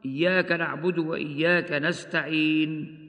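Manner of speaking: short madd on نستعين; two-count stop. Shown as a demonstration. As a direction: recite إياك نعبد وإياك نستعين with a plain sukun stop. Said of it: "هكذا بالسكون المجرد".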